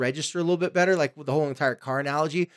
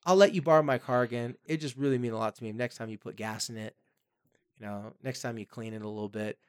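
friendly ask; 3 semitones lower than usual. Shown as a demonstration. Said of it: "just like a friend".

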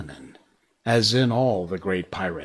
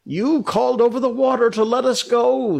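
tag; 13 semitones higher, 6 dB louder than usual. Acted. Crewman protesting to angry captain.

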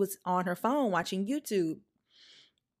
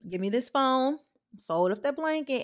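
firm order; 6 semitones higher than usual. Retold or imitated. Demanding phone from crying child.

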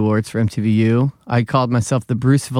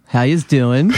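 put-on Philly accent; slower than usual. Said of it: "So it was just a lot of Philly accent".

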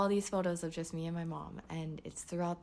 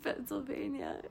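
small, high, soft answer; mock tearful reply; 7 semitones higher, 5 dB quieter than usual. Driver telling cop her destination, mock tearful. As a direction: imitate a meek, tearful driver. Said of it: "but I was crying".

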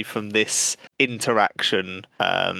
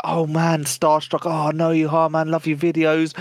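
lightly voiced gushing fan, a bit higher; starstruck fan; 4 semitones higher than usual. Mimicking starstruck fans greeting a streamer, mild gushing. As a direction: gush like an excited fan meeting a star. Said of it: "these people are like".

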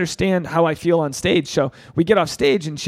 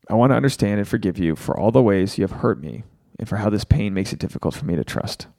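the vow said again faster and smoother; quicker recitation; 6 semitones lower than usual. Shown as a demonstration. Host repeating the forgiveness vow for viewers, faster and smoother. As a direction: run through the whole vow in one go. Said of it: "So say this with me".

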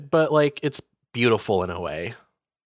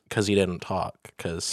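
silent voice of a drummer; 4 semitones lower, 6 dB quieter, slower than usual. Pretend. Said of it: "Ringo sounded like this".

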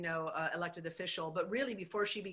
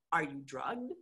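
mock disbelief, laughing it out; incredulous laughing; 3 semitones lower, 8 dB louder, slower than usual. Incredulous thoughts about the supervisor.

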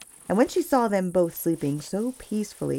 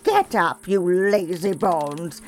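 witch crying out. Acted. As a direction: bark the sleepy girl awake like a nasty old witch. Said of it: "and cried".

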